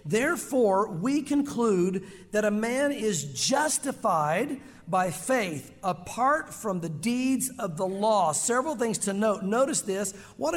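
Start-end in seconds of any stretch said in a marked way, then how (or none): 0.0-8.3 reading the verse slowly, deliberately; slow scripture reading. Acted. Preacher reads verse twenty-eight to the congregation, slow and deliberate. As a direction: lean on each word of scripture. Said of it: "look at verse twenty-eight".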